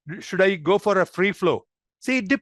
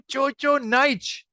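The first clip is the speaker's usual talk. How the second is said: tag; 7 semitones higher, much slower than usual. Shown as a demonstration. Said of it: "give her that much more emotion".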